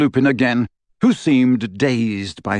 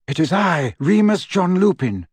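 shouting over wind; 6 semitones higher than usual. A narrator's reading. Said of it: "called a voice over the howling wind".

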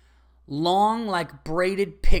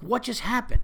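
stunned disbelief; 7 semitones higher than usual. Retold or imitated. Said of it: "I was like".

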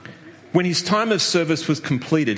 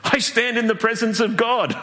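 mock grand angel; 7 semitones higher than usual. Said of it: "of course I can do this".

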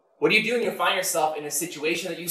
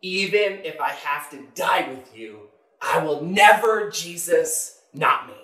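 slow, insistent vow leaning on "never"; retold earnest insistence; Peter; slower than usual. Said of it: "Peter insisted emphatically".

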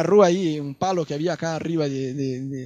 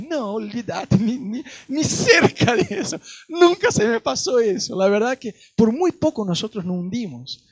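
relieved sailor; 4 semitones higher than usual. Retold or imitated. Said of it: "el chabón dijo".

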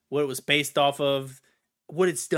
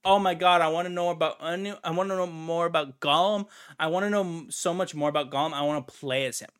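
mock fan gushing; faster than usual. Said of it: "did you ask yourself".

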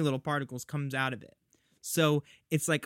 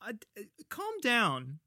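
mock-tranquil, high-pitched plea; 6 semitones higher than usual. Wife calming husband who tries to murder her, mock-tranquil. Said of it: "So tranquil".

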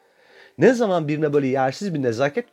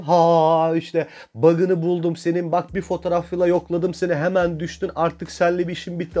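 mocking smug reply; 3 semitones higher than usual. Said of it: "Cevabı söylüyorum".

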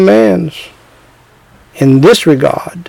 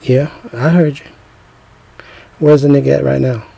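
calm menace; 3 semitones lower, 5 dB quieter than usual. Retold or imitated. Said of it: "he gonna say it very calmly".

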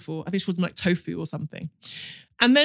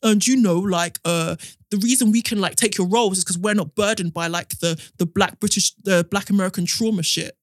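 bad British accent. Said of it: "in his really bad British accent".

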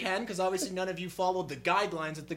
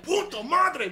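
Mexican Spanish curse; 7 semitones higher, 6 dB louder, slower than usual. Retold or imitated.

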